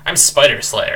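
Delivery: a hint of pride; lightly puffed-up introduction; young roach introduces itself, mildly proud. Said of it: "it says proudly".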